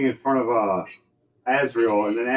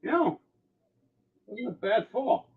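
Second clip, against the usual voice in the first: smug halfling; 12 semitones higher, 4 dB quieter than usual. Acted.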